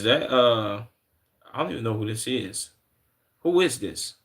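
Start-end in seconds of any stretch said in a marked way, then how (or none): 3.4-4.1 high, puzzled question; trying to place a stranger; puzzled who. Real, not acted. Streamer squints at an unfamiliar name in chat, high puzzled ask.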